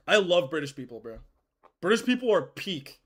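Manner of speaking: normal talking voice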